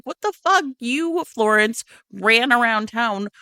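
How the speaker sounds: high, exasperated sister voice; mock indignant sister. Justine snaps at her judgy older sister, mock indignant. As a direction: scold the older sister, half joking.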